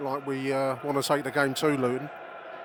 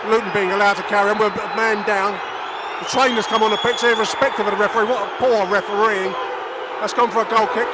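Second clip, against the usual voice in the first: loud, higher commentary, furious at the referee; outraged play-by-play; 7 semitones higher, 8 dB louder than usual. Real, not acted. Fan commentator fuming to listeners about poor refereeing, loud and outraged. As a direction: rage at the ref while calling the game.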